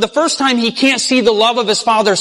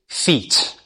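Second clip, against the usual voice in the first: breathy whisper of the final word; whispered, fading to nothing; whispered answer; 7 semitones lower, 5 dB quieter than usual. Shown as a demonstration. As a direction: drop to a whisper on feet.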